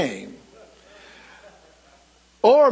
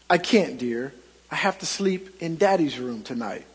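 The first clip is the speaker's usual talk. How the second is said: soft, tender reply from a mother, lower and quieter; 6 semitones lower, 6 dB quieter than usual. Acted. Preacher voicing the mother tucking her son in, tender and soft. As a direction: gently let the child down. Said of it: "said tenderly".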